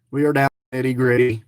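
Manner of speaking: fast, low repeat of the same line. Real, not acted.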